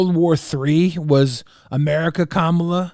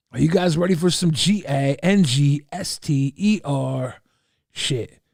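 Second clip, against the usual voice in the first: "G A N G S T E R" spelled letter by letter; spelled-out word. Pretend. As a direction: spell out "G A N G S T E R" deliberately. Repeats it, spelling gangster out.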